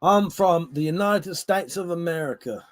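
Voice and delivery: light mock American accent. Shown as a demonstration. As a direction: put on a slight American accent.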